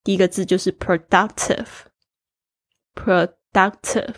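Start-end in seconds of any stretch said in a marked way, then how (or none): 2.9-4.1 productive said slowly with the D syllable stressed; stress on second syllable. Shown as a demonstration. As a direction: lean on "duc" in productive, slowly. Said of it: "重音在D上面".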